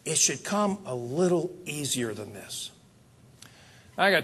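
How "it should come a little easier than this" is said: tired complaint. Retold or imitated. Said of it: "you sit down and say".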